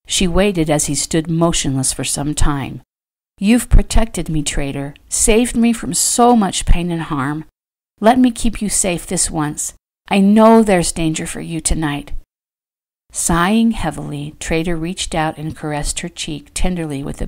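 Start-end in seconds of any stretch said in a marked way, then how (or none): 3.4-12.1 lightly voiced earnest plea; pleading wife. Fallon asking to keep Trader safe, pleading. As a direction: gently press him to let her help.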